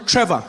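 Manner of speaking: Trevor said clearly as TREV-a; correcting his name. Acted. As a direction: insistently pronounce Trevor with a crisp TR.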